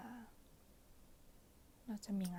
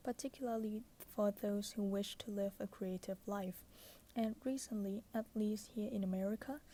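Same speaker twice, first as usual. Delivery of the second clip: pillow talk; much slower than usual. Acted. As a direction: read it like a bedtime whisper. Reads book passage softly.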